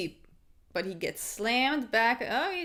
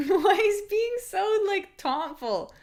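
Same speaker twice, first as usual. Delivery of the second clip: high, slow laughing question, tickled by the taunting; laughing disbelief; 9 semitones higher, 4 dB louder, slower than usual. Real, not acted. Viewer laughing at fighter's taunts, high and slow.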